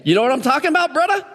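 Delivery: lightly put-on Hawaiian pidgin lilt; playful Hawaiian local accent. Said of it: "picking up the accent of how people talk".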